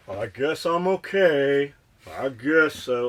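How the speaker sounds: slow, drawn-out mock resignation; imitating a half-hearted shrug in slow words; mock resigned. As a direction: drag it out like you can barely be bothered. Mocking a defeatist attitude.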